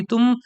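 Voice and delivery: तुम pressed with a slight rise; stress on तुम. Shown as a demonstration. Teacher to students, stressing तुम in a question. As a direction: lean on the word तुम. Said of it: "उस word पे stress कर देते हैं".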